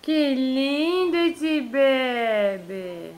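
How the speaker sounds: very slow, soft adoring words; tender. Real, not acted. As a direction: linger lovingly over each word.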